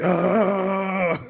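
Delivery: drawn-out gunner's yell; mock battle yell. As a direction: let out a long mock firing yell. Mimics M sixty gunner firing.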